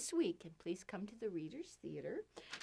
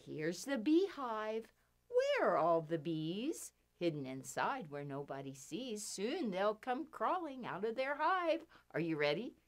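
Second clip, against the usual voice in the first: finger play rhyme; 3 dB louder than usual. Pretend. Reciting children's finger rhyme.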